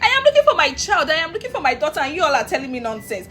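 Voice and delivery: high, emphatic retold outburst; angry. Mother searching for her child to bystanders, exasperated. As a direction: insist indignantly, starting high and loud. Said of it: "I was angry".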